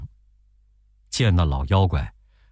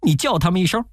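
higher, fast, brisk monkey voice; lightly voiced Monkey King; 9 semitones higher, faster than usual. A narrator's reading. Monkey King tells his master to call them, quick and high. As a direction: rattle it off, quick and lively.

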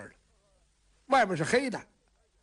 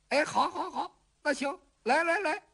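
laughing eagerly; 7 semitones higher than usual. Acted. Wife offers spanking, he laughs.

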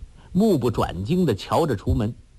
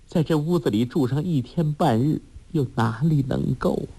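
mother sighing; 3 semitones higher than usual. Acted. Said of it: "包希若叹道".

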